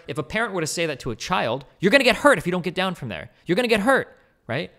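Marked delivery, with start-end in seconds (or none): 1.8-3.3 a parent calling up a warning, a bit raised. Retold or imitated. Mock parent warning a child to get down from there. 3.5-4.2 higher, louder repeat of the parental warning; mock parent warning. Mock parent repeating the warning to a child, louder.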